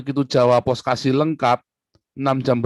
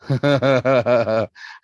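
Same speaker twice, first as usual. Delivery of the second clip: evil laugh; 4 dB louder than usual. Acted. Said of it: "Ciri khas ketawa jahat".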